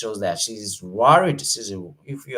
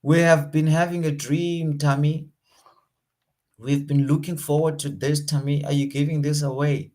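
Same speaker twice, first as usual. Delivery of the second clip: disbelief; 4 semitones higher, 3 dB louder than usual. Shown as a demonstration. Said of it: "she doesn't believe".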